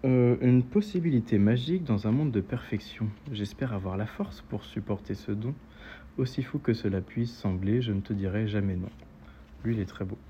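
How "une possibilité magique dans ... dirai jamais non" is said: poem reading. Acted. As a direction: read it as poetry, phrase by phrase. Reads a poem aloud.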